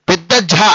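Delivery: "ఝ" pressed out with a puff of breath; pressed aspirated sound. Shown as a demonstration. Teacher showing learners the big letter, "ఝ" pressed and aspirated. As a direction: stress the heavy aspirate in "ఝ". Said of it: "ఒత్తి పలకాలి".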